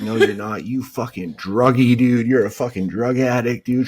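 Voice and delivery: loud, high-pitched imitated scolding; mock angry wife. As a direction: act out a wife yelling accusations. Wife scolding in acted quarrel.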